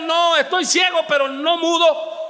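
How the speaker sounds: high shouted comeback; acted indignant cry; defiant retort. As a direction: shout back, refusing to be silenced. Blind man answers back, acted.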